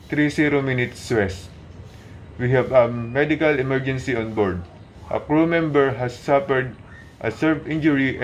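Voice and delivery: formal pan-pan radio call; radio urgency call. Shown as a demonstration. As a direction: call it out like a marine radio operator. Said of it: "demonstrate to you how to announce ... urgent message".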